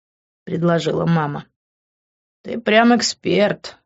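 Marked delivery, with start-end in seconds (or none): 2.4-3.8 smirking. Acted. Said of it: "ухмыльнулся я".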